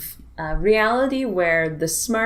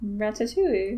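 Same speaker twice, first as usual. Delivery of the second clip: laughing pronunciation; 4 semitones higher than usual. Shown as a demonstration. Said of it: "How do you say it?".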